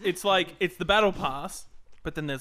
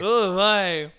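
put-on old Jewish man voice; 4 semitones higher, 8 dB louder than usual. Mock Jewish old man riff.

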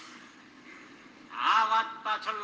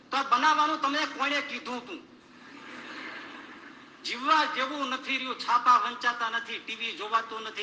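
raised voice, accusing; scolding God; 4 semitones higher than usual. Acted. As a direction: rail at him for making this world.

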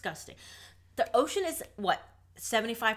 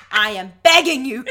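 mock pleading; 4 semitones higher, 15 dB louder than usual. Real, not acted. Pleading with actress, mock begging.

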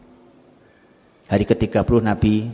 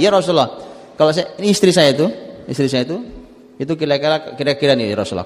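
playful Umar; 5 semitones higher than usual. Acted. Umar joking to cheer Prophet.

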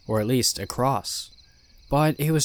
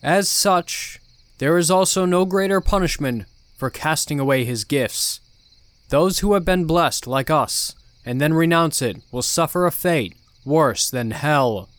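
ominous sermon; 4 semitones higher, 6 dB louder than usual. Acted. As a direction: warn the flock with menace. Cult leader sermon.

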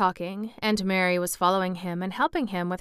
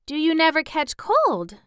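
put-on higher, louder girl's voice, full of wonder; wondering question; 9 semitones higher, 5 dB louder than usual. A narrator's reading. Mary asking the boy about colds, wondering. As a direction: ask it in lightly acted amazement. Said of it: "gazing at him wonderingly".

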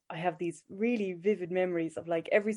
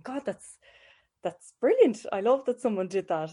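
excited; 3 semitones higher, 5 dB louder than usual. Retold or imitated. Child's delighted inner voice.

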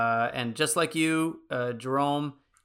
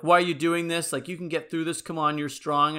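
mock angry pep talk; 4 semitones higher, 4 dB louder than usual. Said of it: "he's clearly kinda getting angry".

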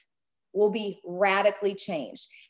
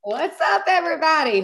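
rusty unused morning voice; first words of the day, voice not warmed up; 6 semitones higher, 5 dB louder than usual. Real, not acted. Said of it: "Whew, that's my morning voice".

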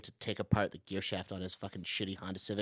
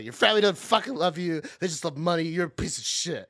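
retold yell; 5 semitones higher, 4 dB louder than usual. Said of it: "I would just yell at them".

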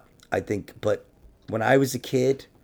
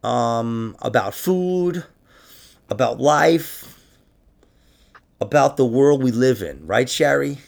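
shrill gloating wrestling manager; 6 semitones higher, 6 dB louder than usual. Pretend. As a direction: gloat like a TV host teasing secrets. Mock show host secrets.

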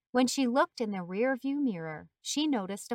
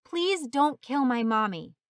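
put-on mildly raised child's plea, understated panic; panicked crying plea; 2 semitones higher, 4 dB louder than usual. A narrator's reading. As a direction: plead like a frightened child, a touch tearful. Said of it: "yelling, crying, and saying one thing repeatedly".

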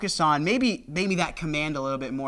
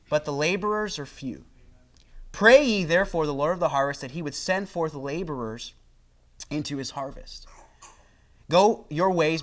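scripture reading. Acted. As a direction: read the verses with weight. Reads scripture aloud to congregation.

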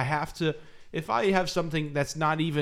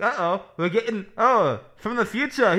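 put-on old-timey radio announcer; 8 semitones higher, 5 dB louder than usual. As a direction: enunciate like a forties broadcaster. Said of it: "old-timey radio voice".

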